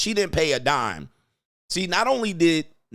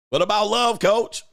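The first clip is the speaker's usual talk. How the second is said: mock girlfriend plea; 7 semitones higher, 4 dB louder than usual. Repeating girlfriend's quote.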